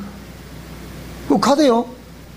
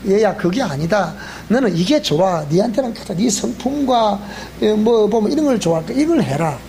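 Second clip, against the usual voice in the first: gentle fatherly God voice; 3 semitones lower than usual. Retold or imitated. God speaking to a child.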